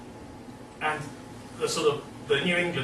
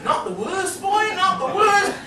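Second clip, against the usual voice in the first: higher, teasing echo; mock academics. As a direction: parrot the yokel back at him. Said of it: "the academics are going".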